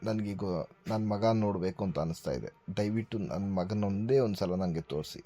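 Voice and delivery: low, soft and hurting, barely getting words out; weak in pain. Acted. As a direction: speak like every word costs strength. Injured father begs to see son. (ನೋವಿನಿಂದ ಮೆಲ್ಲನೆ ಬಳಲಿದ ದನಿ)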